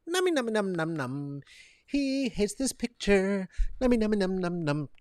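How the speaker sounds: high, cartoonish nummy-num babble; high mocking singsong, as if gobbling; silly munching voice. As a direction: play a greedy little eater up high. Silly gobbling character voice mocking him.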